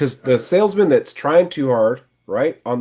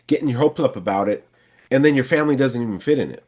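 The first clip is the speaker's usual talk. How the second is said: friendly sales pitch. Shown as a demonstration. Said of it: "So you can say".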